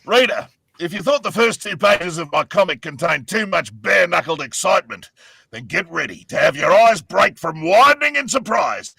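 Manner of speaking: booming comic hero shout; Saxton Hale voice. Acted. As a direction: bellow it like a cocky hero. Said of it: "I'll take it again".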